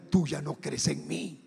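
slow, low voice of a spirit; Sarabanda. Retold or imitated. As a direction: accuse slowly, as a dark spirit to a follower. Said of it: "me dijo".

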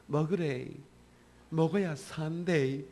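slow, tender "먹어야 산대", mild Gyeongsang coaxing; a gentle sister lovingly urging him to eat, slow. Retold or imitated. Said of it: "다정한 목소리로".

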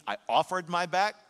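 fervent repeat; emphatic preaching. Real, not acted. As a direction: stress the offering.

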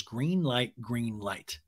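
acted under-the-breath aside, dropping away; muttering. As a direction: mutter it as if to yourself. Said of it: "Sandoval mutters".

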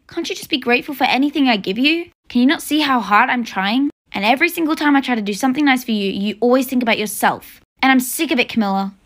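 mother fed up with her ungrateful daughter; hurt, angry mom. Acted. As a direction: let the hurt pour out as anger. Mom's hurt rant at daughter.

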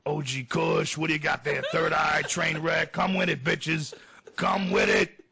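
lightly voiced hyped-up stoner comic; a hint of a hollering hype man; Joey Diaz. Impersonating the friend calling out weed strains, lightly hyped. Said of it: "Joe Diaz".

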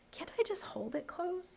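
put-on small pleading boy voice. A narrator's reading. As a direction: plead quietly like a kid.

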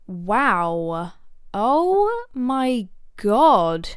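slow, drawn-out amazed exclamation. Real, not acted. Coach stunned by the singer's performance. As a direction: let the awe stretch out. Reacting to the song.

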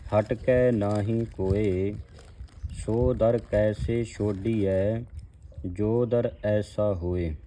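slow, measured verse reading; scripture recitation. Acted. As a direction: recite each word deliberately, x0.6.

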